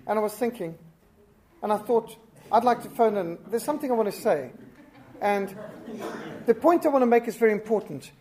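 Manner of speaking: a long-winded radio caller imitation; rambling caller. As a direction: drone on like a caller who never gets to the point. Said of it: "where people sort of speak around about the subject".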